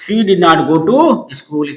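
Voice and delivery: very slow, each word spaced; slow dictation. Shown as a demonstration. Teacher building the answer for students, very slowly. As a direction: lay it down word by word. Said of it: "building the sentence".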